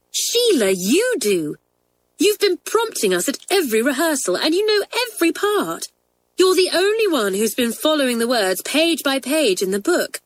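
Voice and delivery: put-on high, eager girl's voice begging a friend; pleading schoolgirl. A narrator's reading. Schoolgirl begs Sheila to take the part, pleading high. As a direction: coax her into saying yes.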